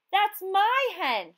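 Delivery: slow loud protest; crying out. A narrator's reading. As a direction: claim the hen with all her voice. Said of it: "she cried to the fisherman".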